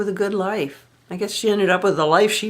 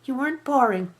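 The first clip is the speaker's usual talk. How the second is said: dismissive repeat; 7 semitones higher than usual. Retold or imitated. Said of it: "I can't imitate her voice".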